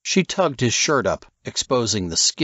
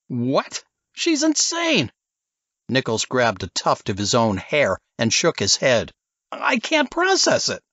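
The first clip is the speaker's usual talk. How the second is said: shocked disbelief; 4 semitones higher than usual. Acted. Nichols in disbelief, outraged.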